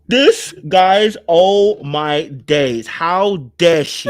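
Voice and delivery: slow, scandalised disbelief; stretched-out theatrical indignation; mock outrage. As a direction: react aghast, drawing the words out. Outraged reaction to the clip.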